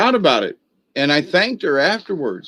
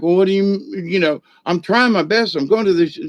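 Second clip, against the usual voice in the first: defensive; 5 semitones higher than usual. Retold or imitated. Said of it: "I started to get really defensive".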